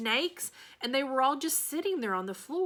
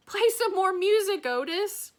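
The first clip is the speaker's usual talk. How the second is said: calling out; 10 semitones higher, 6 dB louder than usual. Acted. Calling out over chaos.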